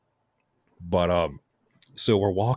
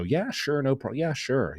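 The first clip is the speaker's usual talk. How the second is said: higher-pitched, easygoing yes; breezy agreeableness; 6 semitones higher than usual. Retold or imitated. Imitating girlfriend who goes along with anything, breezy agreement. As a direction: lightly mimic someone who agrees to anything. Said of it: "she's just very go with anything".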